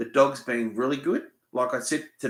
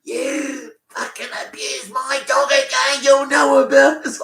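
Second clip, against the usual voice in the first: higher, louder mock shout of an angry neighbour; retold yelling neighbour; 13 semitones higher, 6 dB louder than usual. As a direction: yell it across the yard like she did. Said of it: "she's yelling from a distance".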